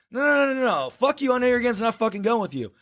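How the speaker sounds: high-pitched, agitated mock protest; acted frantic refusal. Runner refusing the taxi driver, high frantic protest.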